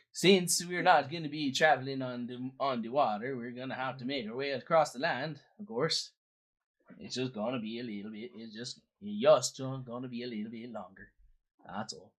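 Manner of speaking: put-on Swedish-Canadian accent; lilting Swedish-Canadian character voice; Credence. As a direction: play a folksy Swedish-Canadian boatman. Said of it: "I'm good old Swedish Canadian".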